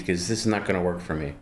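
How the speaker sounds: through gritted teeth. Real, not acted. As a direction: talk through clenched teeth. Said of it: "talking with, like, gritted teeth".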